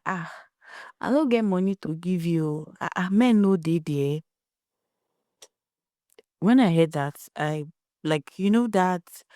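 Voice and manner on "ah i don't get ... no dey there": mother's flat refusal. Retold or imitated. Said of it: "the mother was like".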